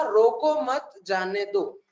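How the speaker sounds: slow, evenly spaced words; king's statement. Acted. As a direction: read the king's order slowly, without grouping. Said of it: "राजा ने statement बोला".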